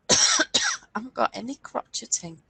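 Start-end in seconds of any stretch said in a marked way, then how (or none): 1.6-2.4 "crocheting" as CROTCH-et-ing; playful dialect pronunciation. Pretend. Presenter answering co-host in kind, "crocheting" as CROTCH-et-ing. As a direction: sound the hard t in "crocheting". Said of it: "that's how they say it".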